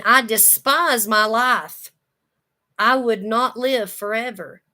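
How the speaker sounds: preacher crying out Job's hatred of his life; loud slow despair. Acted. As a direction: pound out the despair word by word.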